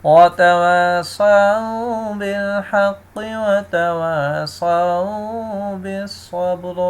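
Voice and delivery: slow chant running بالحق into وتواصوا; joined recitation. Shown as a demonstration. Teacher shows reading on without a pause, slow chant. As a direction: recite straight on without stopping. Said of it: "اس طرح".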